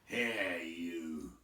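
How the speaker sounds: lightly voiced troll demand; menacing troll. Troll interrogating Bilbo, menacing. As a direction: lean in on the hobbit.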